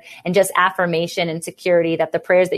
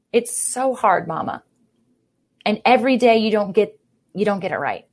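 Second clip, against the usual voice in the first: retold crying; 2 semitones higher than usual. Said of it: "the only words I could say is".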